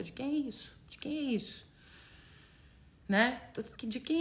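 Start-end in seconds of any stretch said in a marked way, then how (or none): 0.0-1.7 asked gently and quieter, letting it sink in; soft inward question. Shown as a demonstration. Coach guiding viewers to ask themselves, softly. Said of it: "Faz a pergunta".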